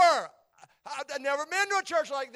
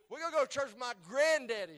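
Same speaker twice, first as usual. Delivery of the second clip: laughing; faster than usual. Real, not acted. Laughing while quoting himself.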